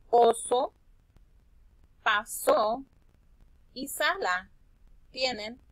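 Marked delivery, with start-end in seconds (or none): 0.1-2.8 "oso" and "pasó" called out louder; words emphasized. Shown as a demonstration. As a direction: punch out "oso" and "pasó" for the class. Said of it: "La palabra su". (palabras destacadas en voz alta)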